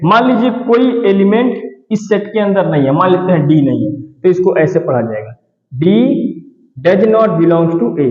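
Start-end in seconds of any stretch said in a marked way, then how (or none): 5.7-8.1 slow, even reading of the whole phrase; slow dictation in one go. Shown as a demonstration. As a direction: read it out slowly for students to copy. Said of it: "इसको हम ऐसे पढ़ेंगे".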